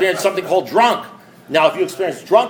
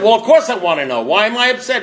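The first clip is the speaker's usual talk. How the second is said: mildly exasperated demand, rising higher; acted impatience; 5 semitones higher than usual. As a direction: press for the answer, a touch indignant. Retold impatient demand to sponsor.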